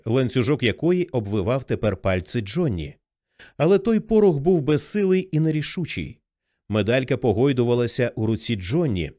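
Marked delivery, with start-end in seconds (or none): none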